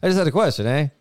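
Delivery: fast, laughing protest; chuckling through the question. Pretend. Reporter pushing back laughing.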